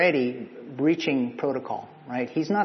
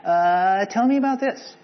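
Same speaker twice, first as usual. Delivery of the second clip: evasive sarcasm; 5 semitones higher than usual. Retold or imitated. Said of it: "So she's saying".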